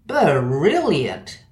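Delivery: brilliant said with an extra uh inside, stretched for drama; dramatic drawn-out word. Shown as a demonstration. Lecturer showing the dramatic extra schwa, stretched brilliant. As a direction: stretch brilliant as buh-rilliant. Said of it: "insertion of a schwa ... for dramatic effect".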